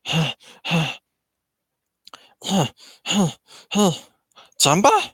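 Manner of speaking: short huffed grunts, then a high questioning name; startled little alien pants, then squeaks; Six Six. Acted. Alien hears his pursuer, huffing then high query. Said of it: "six six is like".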